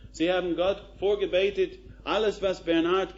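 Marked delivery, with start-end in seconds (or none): none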